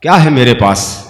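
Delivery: measured recital with rising refrain; poetry recitation. Acted. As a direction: recite each verse, lift the refrain. Reciting ghazal verses.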